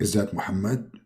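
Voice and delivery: low, quiet voice of God; lightly voiced Allah. Allah answers Muhammad's call, low godly voice.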